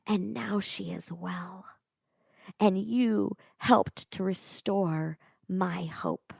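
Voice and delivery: Lindsay tearfully thanking the village women. Retold or imitated. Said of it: "with tears streaming".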